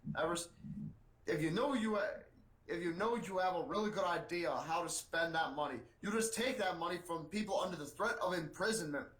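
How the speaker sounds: lightly voiced stump-speech politician; up-and-down lilt, mildly put-on; a hint of a complaining senator; Bernie Sanders. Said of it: "Sanders told his staffers".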